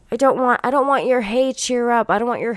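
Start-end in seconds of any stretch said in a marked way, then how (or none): 1.2-2.1 mocking cheer-up voice. Mocking people telling her.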